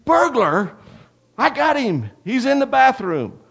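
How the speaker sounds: high, loud, urgent shouting; acted breathless-with-news boyish yell; excited yelling. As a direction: holler the alarm like an excited little brother. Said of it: "And then he yelled".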